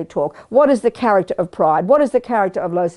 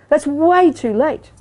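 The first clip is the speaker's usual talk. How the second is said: WAY stretched out and pitched high; slow, high stress on "way"; emphatic repeat; 5 semitones higher, slower than usual. Real, not acted. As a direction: lean long and hard on "way".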